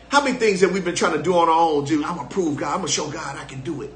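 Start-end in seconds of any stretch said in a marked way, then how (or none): 2.0-3.9 mock boast. Mocking self-reliant believer.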